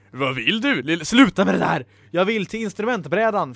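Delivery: cross, impatient retort; touch of exasperated snapping; snapped irritation. Acted. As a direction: tell the book off testily. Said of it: "fräste Ella mot bokrösten".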